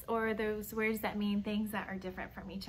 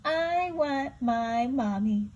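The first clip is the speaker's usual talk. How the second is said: whiny little owl; 4 dB louder, slower than usual. Acted. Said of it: "said Bill".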